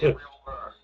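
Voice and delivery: loud sudden shout of Gabriel; shouting a name. Real, not acted. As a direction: yell out to find him. Loud call to friend in game.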